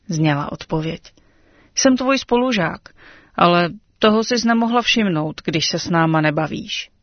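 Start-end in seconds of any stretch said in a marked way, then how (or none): 1.7-6.9 slightly hurt, pitched up at the start; a touch of wounded pride; a bit offended. Acted. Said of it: "zaznělo trochu uraženě".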